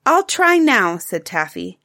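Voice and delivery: put-on a bright child's eager question; a hint of a young girl's voice; little girl Taffy.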